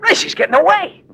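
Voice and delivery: high, loud warning cry; shouting a warning as she escapes; alarmed shout. Acted. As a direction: call out urgently. Alarm call during escape.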